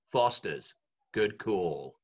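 low, deep ad-tagline voice; ad voiceover. Retold or imitated. Recreating his old Foster's ad tagline, deep and low. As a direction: deliver it like the beer advert. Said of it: "can you be the voice of Foster's".

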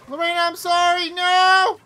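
high, very loud wailed apology; anguished yell. Real, not acted. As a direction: cry out desperately at the top of your voice. Apologizing to teammate as play fails.

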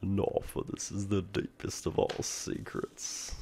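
slow, softened, theatrical character voice; mysterious storyteller figure. Acted. Mysterious boy explains the deepest secret, theatrical. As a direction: draw out each grand pronouncement.

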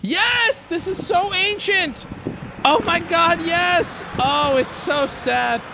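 very high, hammed-up fan squeal; mock excited viewer. Streamer mimicking the viewer base, mock high-pitched excitement. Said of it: "This is how I picture the majority of my viewer base".

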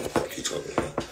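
under-the-breath fast whisper; whispered aside. Real, not acted. Streamer whispering an aside to himself, fast whisper. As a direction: hiss it to yourself, quick.

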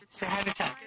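calling out. Real, not acted. Calling someone to the mic.

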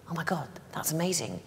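quick breathless whisper of delight; excited whisper. Retold or imitated. Retelling her younger self's thrilled reaction, whispered. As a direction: hush it out fast, awestruck. Retold eager reaction to job ad.

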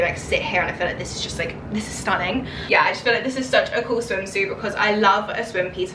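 ordinary talk

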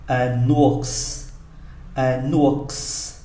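"ours" with a clearly sounded final s; final S pronounced. Shown as a demonstration. Teacher shows an exception, "ours" with audible final s. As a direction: let the s at the end of "ours" hiss out. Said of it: "phải phát âm".

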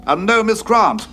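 high, loud, slow final item; incredulous. Acted. Officer doubting the stranger's story, incredulous emphasis. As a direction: cap a list of unbelievable claims. Incredulously listing the Doctor's claims.

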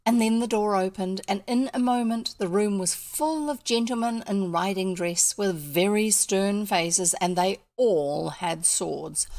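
measured storytelling, drawing out the stern details; story narration. A narrator's reading. Storyteller describing armed gentlemen filling the room, measured narration. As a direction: read it to listeners like an unfolding scene.

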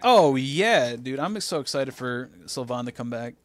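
overdone enthusiasm, touch of sarcasm; a little sarcastic. Acted. Host hyping Sylvain's comeback, a little sarcastic. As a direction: talk up your excitement a bit too much. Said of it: "that sounded a little sarcastic".

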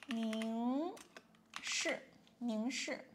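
您 sung with a clear rising second tone; tone demo. Shown as a demonstration. Teacher modelling the rising tone of 您 for learners. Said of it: "您 is a rising tone".

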